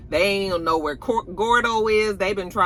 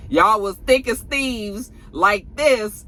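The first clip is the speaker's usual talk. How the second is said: sarcastic disbelief; 6 semitones higher, slower than usual. Real, not acted. Mocking disbelief at Drew.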